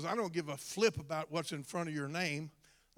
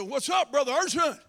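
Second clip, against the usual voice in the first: casual greeting; 6 semitones higher, 7 dB louder than usual. Retold or imitated. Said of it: "I said".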